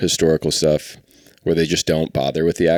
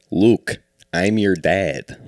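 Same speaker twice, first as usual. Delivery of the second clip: put-on slow, drawn-out Chicago accent; much slower than usual. Comic retelling a villain joke, Chicago accent. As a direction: do Luke's dad with a Chicago accent. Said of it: "shot in Chicago?" He'd be like".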